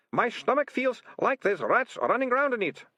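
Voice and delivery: very high, desperate moan; moaning plea. Acted. Poisoned ratcatcher begging captors for antidote, moaning. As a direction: beg for relief in a wail. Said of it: "moaned the Ratcatcher Two".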